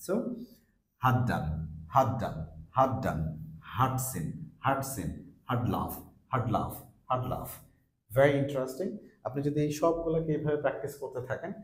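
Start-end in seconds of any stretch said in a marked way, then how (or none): 1.0-7.5 reduced had as /həd/ joined to the verb, as in "হাত ডান"; weak form, linked. Shown as a demonstration. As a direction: say "হার্ট সিন" with a short uh and no r. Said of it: "উইক সাউন্ডটা sound আসতেছে". ("হাত ডান" ছোট স্বরে জুড়ে)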